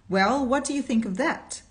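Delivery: cried out. A narrator's reading. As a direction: exclaim it to the crowd in wonder. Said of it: "cried a bystander".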